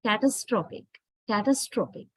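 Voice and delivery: catastrophic with a weak second syllable and stressed STRO; stress on third syllable. Shown as a demonstration. Teacher shows how A weakens, catastrophic stressed on STRO. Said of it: "now we are stressing the third syllable".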